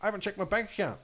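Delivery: high, lightly voiced airhead answer; clueless reply. Waitress answering the furious wife, high clueless voice. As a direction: say it as if it's perfectly reasonable. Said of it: "She goes".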